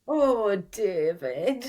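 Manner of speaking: Ruth's "Oh, David", lightly voiced; a gentle sigh of "Oh, David"; Ruth's catchphrase. Shown as a demonstration. Asked by fans, actress gives a lightly voiced Ruth "Oh, David". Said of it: "could you do an "Oh, David" for us all".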